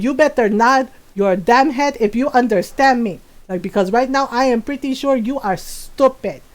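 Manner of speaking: put-on accented Filipino mom telling off her son; imitating scolding mom. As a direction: mimic a mother's stern, deliberate threat. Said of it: "I love how Lola says stupid".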